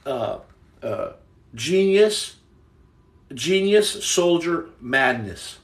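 slow, drawn-out title announcement; dramatic slow reveal. Real, not acted. Streamer reveals his book title, slow and dramatic. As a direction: unveil the title word by word.

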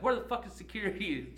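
high, loud demand; the teacher yelling for security; imitating the teacher shouting for security; exasperated shout. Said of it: "she's like".

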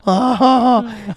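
high, slow teasing chuckle; mocking laugh. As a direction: poke fun lightly. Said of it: "They're like".

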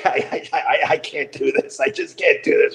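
retold helpless giggling; laughing hard. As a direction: barely get the words out for laughing. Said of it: "as I'm laughing really hard".

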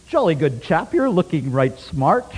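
tossing off a casual British compliment in a mock accent. Local man in Thimphu greets the preacher, in mock British accent. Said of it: "like, British accent".

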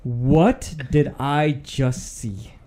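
drawn out, each word slowly; slow stunned disbelief. Real, not acted. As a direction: slowly, still in shock. Repeats his shocked question.

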